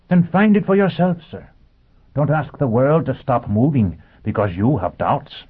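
high, earnest robot voice; a machine preaching with conviction. Acted. Robot lecturing Foyle.

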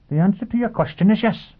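high, crisp, distinct robot voice. Acted. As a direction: speak like a cheerful machine. Robot answering Foyle.

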